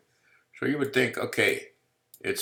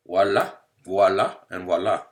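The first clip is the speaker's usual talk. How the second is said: showman flourish; 2 semitones higher, 10 dB louder than usual. Acted. Presenting the two solutions.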